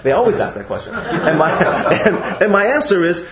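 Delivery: amused, talking through laughter; laughing. Real, not acted. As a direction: let real chuckles break into the words. Amused by a recurring question.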